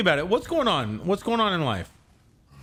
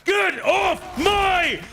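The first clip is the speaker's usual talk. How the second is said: high, drawn-out hammed-up war cry; mock battle roar; 11 semitones higher, slower than usual. Gamer playing war god to his enemy, hammed-up roar. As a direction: bellow it slowly like a raging war god.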